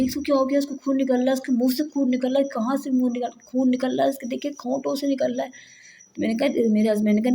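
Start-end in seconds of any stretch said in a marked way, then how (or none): 0.0-5.5 mock panicked mother crying out over her bleeding son; panicked cry retold. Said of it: "मेरी तो चीख वो बुलंद हो गई". (घबराई हुई चीख की हल्की नकल, ऊँची आवाज़ में)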